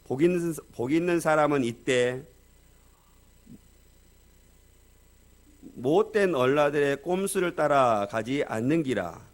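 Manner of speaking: 경상도 사투리로 힘차게 암송; Gyeongsang dialect recitation. Retold or imitated. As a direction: recite the psalm like a bold Gyeongsang man lecturing kids. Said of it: "경상도 한 분이 나오셔서 시편 일 편을 이렇게 암송을".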